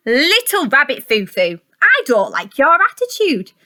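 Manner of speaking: storybook fairy scolding a rabbit; stern fairy. Acted. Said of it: "and said".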